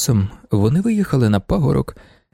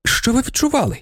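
eager pleading; 7 semitones higher than usual. Acted. Okhotsky eagerly questioning.

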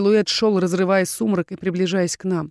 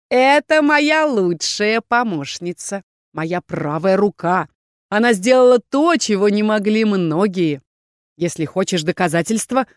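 drawn-out boast building to a loud incantation; gloat, then proclaim the spell ringingly; smug villain leader; 2 semitones higher, 4 dB louder than usual. Acted. Rebel leader offering Erkhan proof, triumphant.

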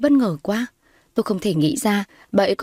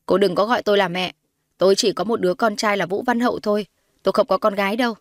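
lightly voiced haughty mother, firm rebuff; mildly stern, hostile mother; cold disowning mother. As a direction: put the girl in her place.

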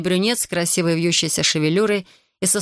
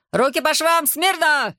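shrieked orders; 9 semitones higher, slower than usual. Acted. Corporal ordering Artur, shrieked commands. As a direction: keep screeching the commands.

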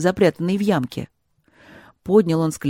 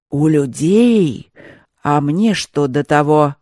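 lower, louder, very slow scornful growl of a spirit; menacing; 3 semitones lower, 6 dB louder, slower than usual. A narrator's reading. Spirit scoffing at the youth, lower, louder and menacing. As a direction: sneer at the idea with slow menace. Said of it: "грозно продолжал дух".

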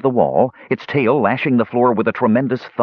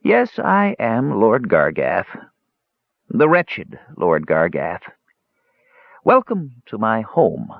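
slow, despairing little creature; sorrowful hedgehog lord; slower than usual. Acted. Cursed Lord Gargath welcoming visitors to his home, slow and wretched. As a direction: draw it out wretchedly.

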